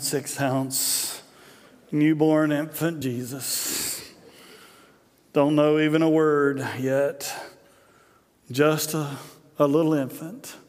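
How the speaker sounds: mock-earnest table prayer; slow prayer in short phrases, long pauses between; Ricky Bobby. Movie father saying grace, lightly mocked earnest prayer. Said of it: "he prays this beautiful prayer".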